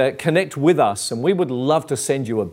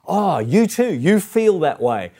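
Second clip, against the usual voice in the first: mildly surprised, higher at the start; pleased recognition; 5 semitones higher than usual. Acted. Believer meeting a kindred spirit, pleased surprise. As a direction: act out a happy moment of finding common ground. Acting out a moment of delighted recognition.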